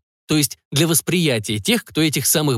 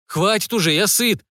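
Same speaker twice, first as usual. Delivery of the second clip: protesting; 7 semitones higher than usual. A narrator's reading. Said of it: "возмутился было сыночек".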